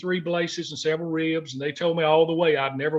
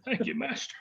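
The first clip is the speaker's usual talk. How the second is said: voice breaking; 7 semitones higher, 4 dB louder than usual. Real, not acted. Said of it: "trying to get myself together here, guys".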